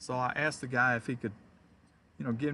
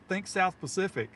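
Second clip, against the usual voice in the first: louder hint; 7 semitones higher, 6 dB louder than usual. Retold or imitated. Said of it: "And I said".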